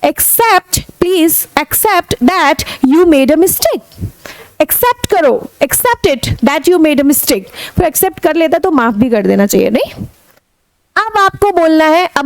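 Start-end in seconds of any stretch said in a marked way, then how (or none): 0.0-4.0 slow, firm request; slow demand. Shown as a demonstration. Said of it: "तो आप बोले". 5.6-7.4 slow demand. Shown as a demonstration. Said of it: "तो आप बोले".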